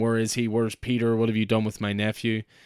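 ordinary talk

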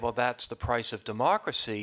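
ordinary delivery

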